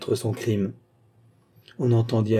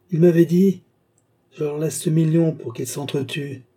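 frantic outburst; 5 semitones higher than usual. Acted. Villain confessing in a trance.

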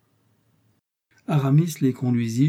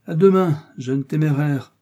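high, loud farewell easing off; raised Jesuit voice; parting Jesuit; 5 semitones higher, 6 dB louder than usual. A narrator's reading. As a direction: call out a cleric's goodbye, first words raised. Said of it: "dit le jésuite".

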